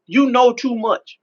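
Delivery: slow, measured words with long pause; God's solemn answer. Retold or imitated. God answering a man who wants to cry, solemn. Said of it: "I just remember God saying".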